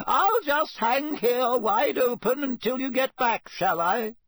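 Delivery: high, indignant sarcastic call; offended, high-pitched complaint; irritable calling. A narrator's reading. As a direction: call after them in a high huff. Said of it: "called irritably after them".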